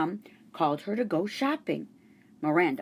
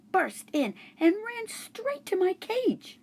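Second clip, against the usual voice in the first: tense; 14 semitones higher than usual. A narrator's reading. Dog bursts in, tense.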